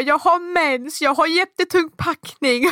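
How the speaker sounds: high, frantic plea near tears; desperate pleading. Retold or imitated. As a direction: beg the agent, on the verge of breaking down. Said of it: "Jag bara". (förtvivlad bön nära gråten)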